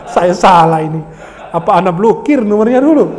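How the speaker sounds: amused, exasperated grumble through laughter; laughing mock regret. Preacher pestered nightly by a debtor's reports, laughing mock regret. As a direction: complain jokingly while laughing.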